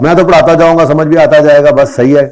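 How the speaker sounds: mock the class's easy confidence; teacher needling lazy students; sarcastic mockery. Real, not acted. Teacher mocks students' complacency.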